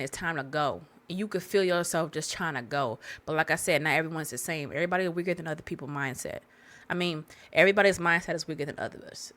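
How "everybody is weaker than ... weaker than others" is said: tripping over the words; stumbling stutter mid-sentence. Real, not acted. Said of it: "I'm stuttering".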